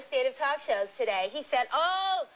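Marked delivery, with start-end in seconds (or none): 1.7-2.3 Merv Griffin impression. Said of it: "that's my Merv Griffin part".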